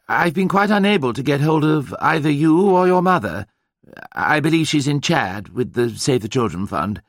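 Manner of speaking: high, strained, drawling English gentleman on the phone; upper-class drawl delivering grim news. A narrator's reading. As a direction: draw the words out with strained sympathy. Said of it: "he said in a strained and drawling voice".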